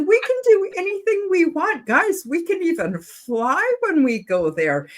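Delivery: high, emotional voice close to crying; moved to tears while promising wonders; tearful. Real, not acted. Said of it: "I don't know why I'm crying".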